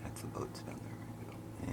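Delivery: slow hushed whisper. Real, not acted. Pointing out the boats to viewers, slow whisper. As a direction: whisper it, slow, as if not to be heard. Showing the view while plane passes.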